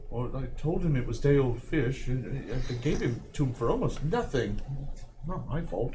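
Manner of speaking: lightly voiced fishmonger making excuses; defensive fishmonger. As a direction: shrug off the blame quietly. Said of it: "The fishmonger's like".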